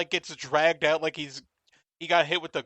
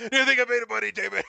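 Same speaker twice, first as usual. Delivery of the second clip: higher, hammed-up stingy dad; mock fussy dad; 6 semitones higher, much faster than usual. Host echoing the line as a shrill cheapskate dad. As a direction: squeak it like a penny-pinching father.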